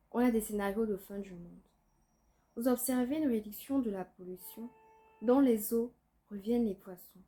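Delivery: measured spoken-word recital with pauses after each line; deliberate verse delivery, each phrase set apart; poem reading. Acted. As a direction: read it as a solemn poem, line by line. Une phase de lecture.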